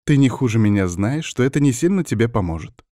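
mildly grumbled, brisk reproach; grumbling. Acted. Witch grumbles while probing his back, brisk mild grumble. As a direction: grumble it lightly while busy. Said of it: "ворчала она".

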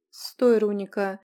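loud, urgent cry to stop; shouted order. Acted. She shouts to hold back furious Runika. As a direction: yell her to a halt.

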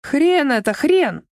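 выкрикнуть повыше и погромче, но без крика; слегка повышенный возглас; восклицание. Acted. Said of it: "воскликнула Альбина". (лёгкий возглас «хрен»)

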